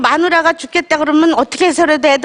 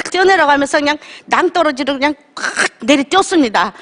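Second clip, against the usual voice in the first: real crying creeping into the words; tearful retelling. Real, not acted. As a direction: tell it through tears. Retelling jumping off the cliff. (울먹이며)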